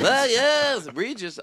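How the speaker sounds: high, loud retort; mock indignant. Impressionist corrects partner calling him Regis, mock-indignant cry. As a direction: burst out in put-on exasperation.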